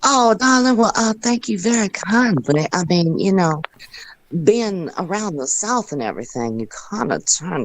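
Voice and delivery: sweet-talking Southern belle, opening high; Southern accent. Shown as a demonstration. The speaker thanking listener for praising her voiceover, Southern accent. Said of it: "learn how to talk like these people do".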